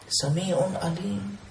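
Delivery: Sami'un Alim sung out long and slow; slow drawn-out. Shown as a demonstration. Preacher to listeners, Sami'un Alim slowly drawn out. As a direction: stretch Sami'un Alim out slowly, each syllable held.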